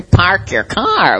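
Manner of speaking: park your car with no r, slow and drawn out; Boston accent. Retold or imitated. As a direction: pahk yah cah, slowly. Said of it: "In Boston".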